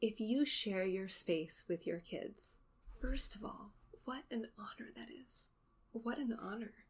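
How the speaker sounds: teary voice, close to tears. Addressing moms who share their space with their kids, getting a little teary. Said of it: "I think I'm getting a little teary about this".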